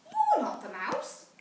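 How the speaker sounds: a small monster calling out to the fox; little Gruffalo child. Acted.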